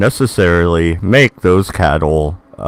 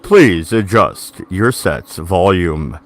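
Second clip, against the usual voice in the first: monotone voice; 4 semitones lower, slower than usual. Pretend. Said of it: "the monotone voice".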